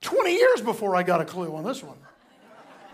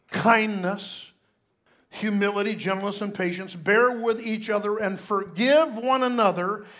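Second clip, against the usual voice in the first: raised, measured scripture read; 4 dB louder than usual. Acted. Pastor reading Colossians aloud to the church, proclaiming. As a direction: proclaim the verse to the congregation.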